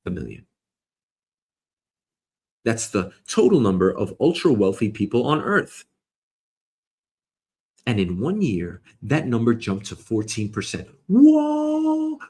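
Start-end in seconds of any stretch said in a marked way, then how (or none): 0.1-0.5 "a million." dropped low and soft with a falling tune; "a million." closed off in a low fall; settled statement. Shown as a demonstration. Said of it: "Let's call it". 11.1-12.2 mock amazement. Shocked at the wealth jump.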